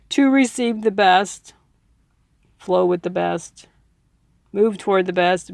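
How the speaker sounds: breathy whisper, like a secret; hushed urging; whispered affirmation. Real, not acted. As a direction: whisper it like a mantra. Mantra-like affirmation.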